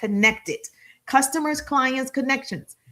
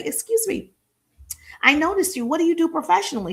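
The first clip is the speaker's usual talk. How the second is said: bright, high "Excuse me" to a stranger; polite approach voice; 6 semitones higher than usual. Shown as a demonstration. Coach shows how to greet a woman, polite and high. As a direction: open politely and a bit high. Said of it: "You get to say".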